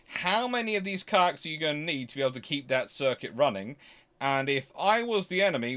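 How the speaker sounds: usual speaking voice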